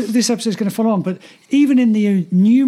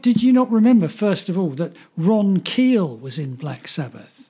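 mock rude listener. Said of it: "call us assholes".

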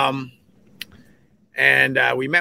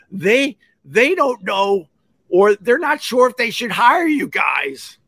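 agent voice; 8 semitones higher, slower than usual. Retold or imitated. Agent relays doubtful news.

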